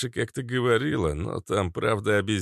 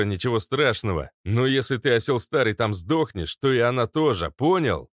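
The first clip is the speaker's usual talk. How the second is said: higher, pushy female voice; Kobra scolding; 4 semitones higher than usual. Acted. Kobra scolds grandpa through intercom, pushy. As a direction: press the old man hard.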